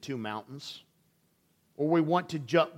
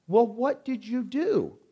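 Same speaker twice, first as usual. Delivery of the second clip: mock stern mother; 8 semitones higher than usual. Wife presses son, retold.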